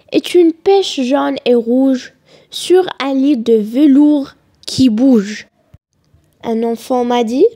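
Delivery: measured poem reading with pauses between phrases; deliberate classroom recitation. Acted. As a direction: recite the poem line by line, letting each image settle.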